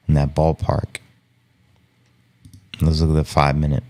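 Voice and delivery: ordinary talk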